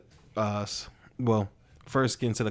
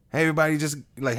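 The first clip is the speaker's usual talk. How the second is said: stand-up comic opener; 3 semitones higher, 5 dB louder than usual. Retold or imitated. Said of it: "he just goes on and be like".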